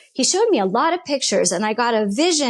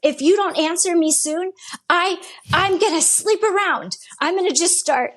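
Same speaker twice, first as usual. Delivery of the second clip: higher-pitched retold ultimatum; exasperated threat; 6 semitones higher than usual. Woman retells threatening God to sleep around, exasperated. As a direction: imitate a fed-up threat to God. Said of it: "this was the kicker. I said".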